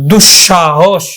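দুঃসাহস with a long middle sh; doubled palatal sh. Shown as a demonstration. Teacher saying how we pronounce it, long double sh in দুঃসাহস. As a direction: hold the sh between du and sha in দুঃসাহস. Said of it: "উচ্চারণ করি".

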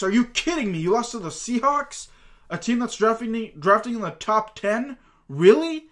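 can't believe they lost to that team; real fan exasperation, peaking in a sharp high question; exasperated disbelief. Real, not acted. Ranting at Cardinals' losses.

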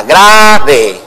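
"Grave" said with the stress on the first syllable, GRA-ve; teacher shows that "Grave" rises on the first syllable, then falls. Shown as a demonstration. Teacher demonstrating stress to the TV host, "Grave" as GRA-ve. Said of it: "Se llama grave porque se vuelve alta y luego baja".

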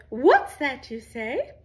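high, loud and slow, every word drawn out; slow high sing-song call. Shown as a demonstration. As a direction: stretch it out like a playful echo for the kids to copy. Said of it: "you're going to respond with".

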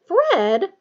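loud, high, scolding name-call; indignant. A narrator's reading. Ginny rebuking her brother Fred, indignant. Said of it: "said Ginny indignantly".

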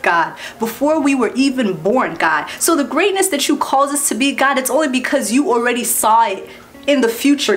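preacher closing her video in prayer, earnest and low. Acted.

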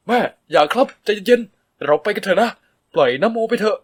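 calm her down urgently; desperate plea. A narrator's reading. Son begging his mother to leave, loud and pleading.

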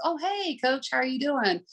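confident greeting. Retold or imitated. Recovered athlete greets the coach, bright and confident. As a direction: greet the coach like you're glad to be back. Standing up straighter, look you in the eye.

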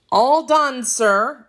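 high, bright-eyed pride in finished work; proud announcement. A narrator's reading. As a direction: announce it like you earned praise. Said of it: "announced Jacques proudly".

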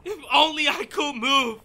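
"only" stressed through a sob; crying out. Acted. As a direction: break into tears on "If only". Captive strains against his bonds.

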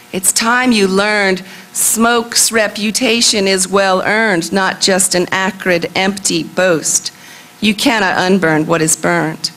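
measured recital with a steady refrain; poem reading. Acted. Poet reading on what is burned, measured recital. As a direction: read rhymed verse, weighting the repeated lines. Reads her poem aloud.

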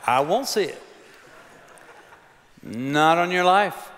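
mock-stubborn slow refusal; emphatic refusal. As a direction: spell it out slowly.

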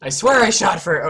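slow, loud, high furious protest; raging gamer. Real, not acted. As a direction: yell it like the game cheated you. Protests losing a gunfight.

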